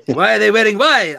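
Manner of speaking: put-on high, loud botched Hispanic accent slipping into Italian; loud mock-Italian lilt in a Hispanic accent; Hispanic accent turning Italian. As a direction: try Hispanic, land on cartoon Italian. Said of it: "I keep going Italian with this".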